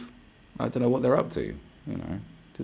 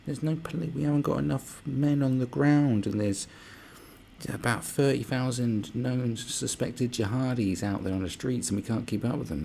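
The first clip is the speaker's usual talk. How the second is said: high-pitched mock whine, drawn out; whining; 7 semitones higher than usual. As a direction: imitate a complaining police commissioner, pitched up. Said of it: "whining on about".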